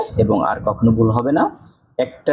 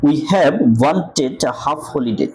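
slow demo reading; much slower than usual. Shown as a demonstration. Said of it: "হ উচ্চারণ হয়েছে".

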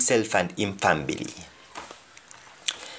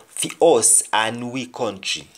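Jamaican patois. Shown as a demonstration. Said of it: "Next example".

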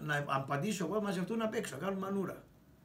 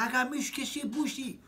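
higher, spat-out insult; mock angry curse; 6 semitones higher than usual. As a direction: fling the curse back. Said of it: "Του λέω". (βρισιά με ψεύτικο θυμό)

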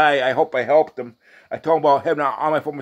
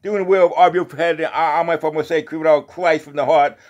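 raised, steady Bible-reading voice; scripture recitation; 2 semitones higher than usual. Real, not acted. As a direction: read it out like a lay preacher. Reads scripture aloud in a preaching recitation.

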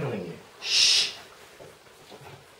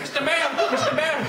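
high mock voice; 11 semitones higher, faster than usual. Acting scene, imitation.

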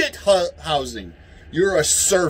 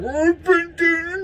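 very high, slow mocking voice; mock Biden; 12 semitones higher, slower than usual. Ranter mimicking Biden in a clip, slow and high. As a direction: drag it out like a doddering old man. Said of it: "Biden's like".

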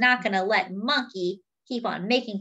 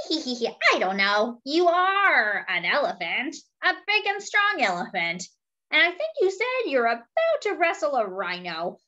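lightly voiced sly monkey, a bit higher; cheeky monkey; 6 semitones higher than usual. Monkey teasing his elephant friend, lightly voiced and sly. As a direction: coax him like a sneaky little monkey.

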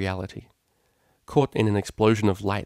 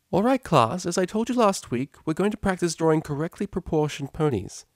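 teacher to class; 8 semitones higher than usual. Acted. Teacher opening the drawing lesson, raised cheerful voice. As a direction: call the class to order cheerfully.

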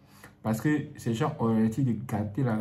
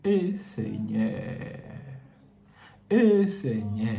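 lament; 3 semitones lower, much slower than usual. Acted. Preacher laments slowly.

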